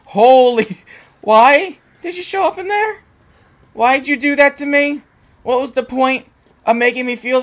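high, slow laughing complaint; laughing relief. Real, not acted. Gamer scolds the vampire after the scare: high laughing complaint.

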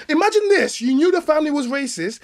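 high, loud, incredulous; loud exasperated cry of disbelief; exasperated outburst. Real, not acted. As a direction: throw it out in disbelief. Heated argument, incredulous outburst.

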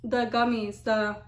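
chewy candy in mouth; talking while chewing. Real, not acted. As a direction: mouth partly full of gummy. Seen 1: Right speaker holds bitten gummy, jaw working between words throughout.

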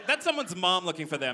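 ordinary talk

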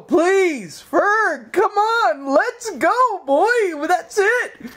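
high, sing-song calling the dog; high dog-owner voice. Acted. Owner calling Fergus to go outside, sing-song. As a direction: coax the dog out cheerfully.

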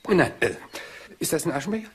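light embarrassed chuckle through the words; a chuckle while changing the subject; laughing it off. Acted. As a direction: laugh to cover the slip. Detective laughs off awkward moment.

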